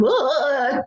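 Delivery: high, drawn-out weepy "ugh"; mock sobbing wail. Wife showing how husband found her, mock sobbing. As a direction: imitate yourself bawling, briefly. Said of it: "snotty and crying".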